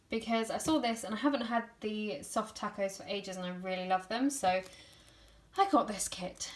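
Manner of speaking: breathless, tired talking; winded between phrases; out of breath. Real, not acted. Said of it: "Sorry I'm so out of breath".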